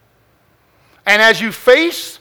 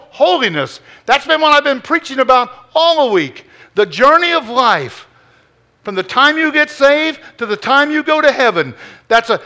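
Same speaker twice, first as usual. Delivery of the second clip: fervent pulpit preaching, building and pressing; 3 semitones higher than usual. Acted. Pastor urging the church to put on God's armor, fervent preaching. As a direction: preach it hard to the congregation.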